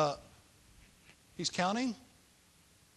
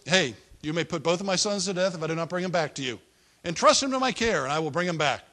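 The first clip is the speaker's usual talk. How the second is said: showy; 6 dB louder, faster than usual. Retold or imitated. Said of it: "he's putting on the show".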